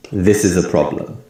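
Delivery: "This" and "prob-" strong, "is a" and "-lem" weak; stress on this and prob-. Shown as a demonstration. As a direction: stress "This" and the first syllable of "problem". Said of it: "the word this and the first syllable".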